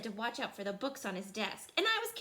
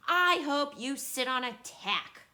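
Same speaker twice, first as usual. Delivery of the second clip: spiteful; 6 dB louder than usual. Acted. Child curses friend.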